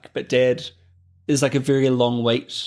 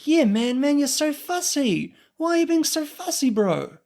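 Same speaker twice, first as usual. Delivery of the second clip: hammed-up Australian blokes calling him fussy; mocking Aussie customers; 13 semitones higher than usual. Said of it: "customers and the staff were like".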